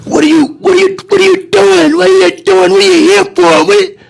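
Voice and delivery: high, pushy mock questioning; a stranger demanding what he's doing here, high and pushy; mock nosy patron. Stranger confronting the delivery man, high nosy questioning. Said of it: "come up behind me".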